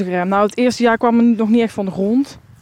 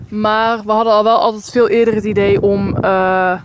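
wind on mic. Real, not acted. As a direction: wind blowing into the microphone. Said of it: "Sorry voor de wind".

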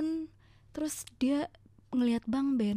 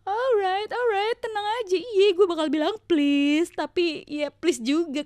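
higher, louder, exasperated appeasing; mock placating; 7 semitones higher, 5 dB louder than usual. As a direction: hush him, pretending to calm him. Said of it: "wife answers annoyed husband".

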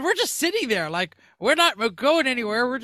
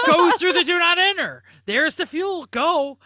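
laughing mock shout; 8 semitones higher, 8 dB louder than usual. Cop urging them, retold.

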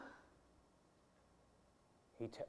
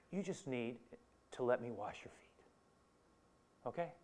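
gentle; 10 dB quieter than usual. Acted. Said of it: "Jesus very gently".

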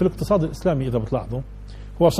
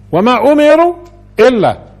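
much higher and louder, driving the point home; fiery preaching; 6 semitones higher, 7 dB louder than usual. Acted. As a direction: preach at full force to the crowd. Preacher rises to full force.

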